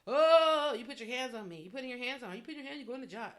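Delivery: hammed-up shocked accuser, high start; extra dramatic Michael. Michael mocked as he backs away, hammed-up outrage. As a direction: overplay the outrage, lightly. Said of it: "Extra dramatic".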